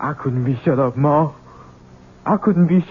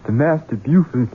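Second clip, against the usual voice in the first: a much lower, softer, grim vow; low menace; 8 semitones lower, 6 dB quieter than usual. Acted. Son vows revenge quietly.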